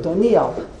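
"Doniel" without stress on the Y; common pronunciation. Shown as a demonstration. Teacher admits most of us say it so, "Doniel" stressed on the N. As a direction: say "Doniel" the everyday way, emphasis on the N. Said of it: "most of us don't do it like that".

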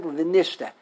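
vi-NISH-te, final te unstressed; stress on second syllable. Shown as a demonstration. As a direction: lean on nish in Vi, nishte. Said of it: "they say on the second".

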